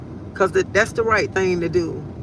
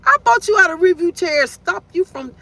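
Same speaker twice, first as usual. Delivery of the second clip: voicing God; 7 semitones higher, 4 dB louder than usual. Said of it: "God was like".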